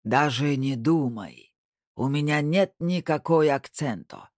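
slow, hammed-up mafia boss; mafioso voice. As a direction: drag the words out like a movie mobster. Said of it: "он произнёс голосом мафиоза". (пародия на мафиози, нарочито медленно)

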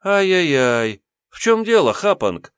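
slow sing-song mockery; tut-tut at him mockingly; mocking tsk-tsk. Narrator mocks beaten bully. (насмешливое цоканье)

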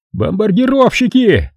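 high sharp cry; alarmed shout. A narrator's reading. Soldier spotting bombers, high alarmed cry. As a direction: call out the planes. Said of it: "закричал Судетец".

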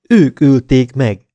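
slow, loud hysterical accusation; hysterical cry. A narrator's reading. Woman accusing the captors of murder, hysterical. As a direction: cry it out hysterically, drawing out the words. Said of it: "kiáltotta hisztérikusan".

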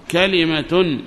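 كلمة said ka-li-ma with a kasra on the lam; kalima form. Shown as a demonstration. Teacher giving students the best-known form, careful demo. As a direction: give كلمة its full three syllables, ka-li-ma. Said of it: "وهذه أشهر اللغات".

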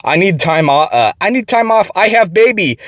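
a hint of a pleading Asian accent. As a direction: lightly voice her accented request. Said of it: "a thick Asian accent".

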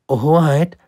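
high respectful address; polite little prince. Acted. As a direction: call the king politely. (höflicher kleiner Prinz, hoch)

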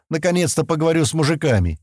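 mildly pleased anticipation. A narrator's reading. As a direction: say it with relish. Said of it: "довольным тоном добавил он".

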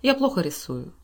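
ordinary delivery, nothing marked

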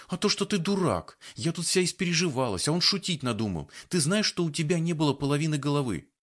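high, indignant scolding. A narrator's reading. Scared girl scolds the man who joked, indignant. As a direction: tell him off for scaring you.

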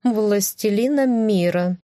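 high slow grand cat voice; proud cat voice. Acted. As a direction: savour it slowly like a vain cat. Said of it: "Она гордо выпятила грудь". (гордый медленный кошачий голос)

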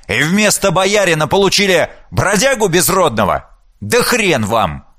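raging, high-pitched tirade; furious yelling. Acted. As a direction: roar at wife and daughters. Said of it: "наследник прекратил ор".

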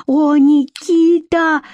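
high, drawn-out emotional cry; joy and horror. A narrator's reading. Vika recognises captive Nikita, joy mixed with horror. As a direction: cry out his name, overflowing with feeling. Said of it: "она вложила и радость, и ужас".

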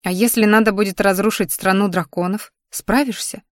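ordinary delivery

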